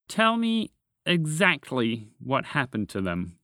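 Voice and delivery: slow, focused and deliberate; intense interest. Acted. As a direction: press for every detail. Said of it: "with focused, intense interest".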